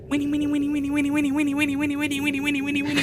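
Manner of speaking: tiny high pixie voice calling; high little sing-song wake-up call. Acted. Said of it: "you hear a little voice going".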